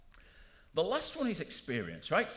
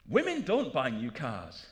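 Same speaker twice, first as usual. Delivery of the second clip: slow mock quote; 2 semitones lower, 4 dB louder, slower than usual. Quoting sexist car industry claims.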